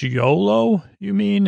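yolo up high, a light teasing lilt; mock quip. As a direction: toss off yolo like a joke.

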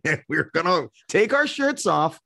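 high, laughing rowdy-lads voice; mock rowdy fans. Fans in the Budapest crowd boasting about escaping their wives, in a hammed-up rowdy voice. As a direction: ham up a shirtless fan on the loose. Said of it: "it was like".

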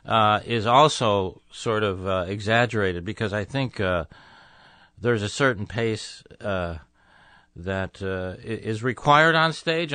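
slow, deliberate thinking aloud; halting, unhurried delivery while searching for words; slow-paced. Real, not acted. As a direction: take your time, with long pauses between phrases. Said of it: "that slow-paced style is, in which I'm speaking to you now".

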